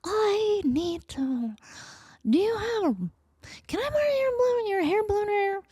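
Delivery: high, slow, halting fan voice; tiny starstruck stammer; nervous squeak. Retold or imitated. Nervous fan asking a pop singer a favour.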